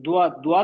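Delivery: "دعا" with a w glide from rounded lips; wrong lip-rounded dua. Shown as a demonstration. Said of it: "ہونٹوں کا استعمال نہیں کرنا ہے".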